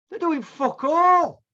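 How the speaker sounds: loud, slow, high-pitched outburst; angry rant. Real, not acted. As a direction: spit it out, fed up and furious. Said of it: "Sorry about me rant there".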